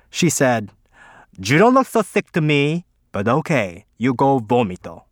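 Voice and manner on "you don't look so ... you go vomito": higher, louder mock teacher voice; imitating Mrs Garcia. Andy mimics Mrs Garcia letting him go, mock teacher voice. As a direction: parrot the teacher with a dry, dismissive lilt.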